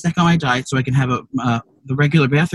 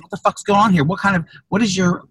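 raised, heated retelling of a yell; mock angry yell; 5 semitones higher than usual. Yelling at the store doorman, mock angry. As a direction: snap at the man in line, half-acted. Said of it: "I yelled at the man".

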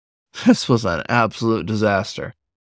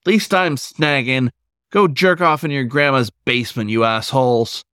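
yelled insult; 4 semitones higher than usual. Acted. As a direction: shout it after the fleeing teens. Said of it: "but the wolf yelled".

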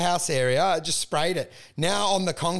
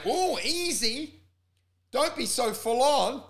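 slow mock calming; 5 semitones higher, slower than usual. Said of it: "people are like".

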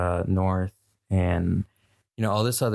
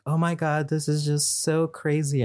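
high-pitched put-on dismay; mock a scheming celebrity mother acting shocked; higher, hammed-up fake distress; Kris Jenner; 7 semitones higher than usual. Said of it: "Kris Jenner is just like".

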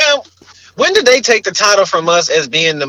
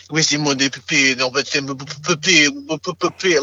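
spluttering fake-French gibberish; mock French with popping P sounds; 3 semitones lower, 4 dB quieter than usual. Skeptic mocking how French sounds, spluttered fake French. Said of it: "Sound like they ain't got no teeth".

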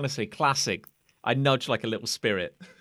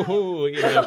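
playful ooh; 4 semitones higher, 9 dB louder than usual. Acted. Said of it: "cheeky punches on his belly".

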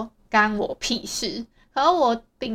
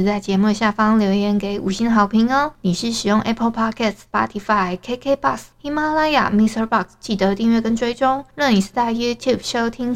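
bright, louder promo read for listeners; podcast outro; 4 dB louder than usual. Acted. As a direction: sign off the show like an ad.

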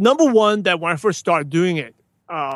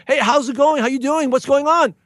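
higher, eager run of hellos; long lost friend greeting; 6 semitones higher than usual. Shown as a demonstration. To a friend unseen since high school, delighted and eager. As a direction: greet an old pal after years apart. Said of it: "what I say, the long lost friend".

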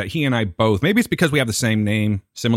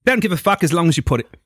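attempted Aussie rocker, dismissive; rough go at an Australian accent; bad Australian accent; 3 semitones higher than usual. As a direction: brush them off in a badly faked Australian accent. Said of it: "I couldn't do an Australian accent".

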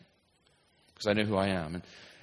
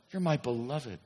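softer, quieter repeat; an echo of the same words; 6 dB quieter than usual. Shown as a demonstration. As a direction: let it fall softly. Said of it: "softer repetition".

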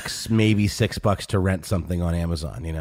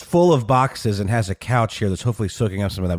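echoey room; 2 semitones higher than usual. Real, not acted. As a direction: voice in a big, untreated empty room. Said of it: "if I sound more echoey than I usually do".

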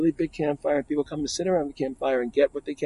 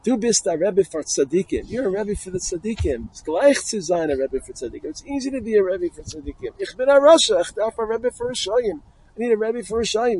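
impassioned higher-pitched plea, swelling loud midway; retold tearful plea; 7 semitones higher, 4 dB louder than usual. Thief pleads with the dead Rebbe's son, imitated anguished outburst. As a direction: act out a desperate thief's cry of need. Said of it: "the thief, starts crying".

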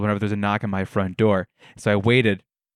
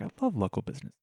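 hipster gush; 11 dB quieter, much faster than usual. Retold or imitated. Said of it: "I'm like".

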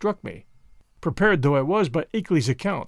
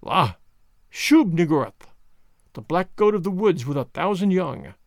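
a touch of an inhuman insect drone; hint at an alien buzzing the words; fiendish buzzing voice. Retold or imitated. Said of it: "feeble, fiendish buzzing".

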